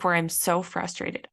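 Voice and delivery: ordinary delivery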